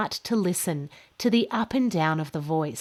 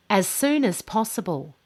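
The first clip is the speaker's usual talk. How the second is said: "soon" lifted and stretched, falling after; stress on soon. Shown as a demonstration. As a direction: lean on "soon" and let it fall. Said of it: "Can you hear how the tone of my voice goes up and down".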